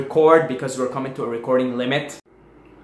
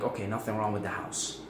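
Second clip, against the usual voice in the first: relieved sigh; 5 semitones lower, 11 dB quieter than usual. Pretend. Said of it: "And I'm like".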